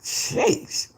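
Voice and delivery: soft whispered exhale. Real, not acted. Streamer shakes off the clip with a soft whispered sheesh. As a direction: breathe it out in disbelief. Reacting in disbelief.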